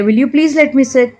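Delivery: very slow, every word laid out clearly; slow model phrase. Shown as a demonstration. Teacher slowly models an English apology for Hindi learners. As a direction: say it slowly so learners can repeat it. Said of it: "हम ऐसे भी कह सकते हैं".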